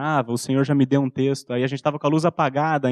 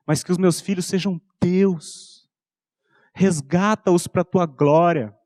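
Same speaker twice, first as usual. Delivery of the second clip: slow, pleading prayer rising higher toward the end; fervent prayer; 4 semitones higher, slower than usual. Retold or imitated. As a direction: plead with God for your children, slowly and intensely. (oração fervorosa e lenta, subindo de tom)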